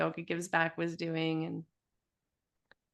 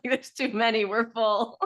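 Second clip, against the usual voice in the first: raised pitch, playful mock complaint; mock protest; 4 semitones higher, 4 dB louder than usual. Teacher joking about another student turning up, mock protest. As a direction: imitate someone jokingly turning people away.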